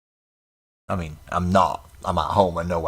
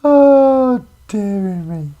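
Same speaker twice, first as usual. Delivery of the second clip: high amused exclamation; laughing; 13 semitones higher, 11 dB louder, much slower than usual. Real, not acted. Laughing at the joke.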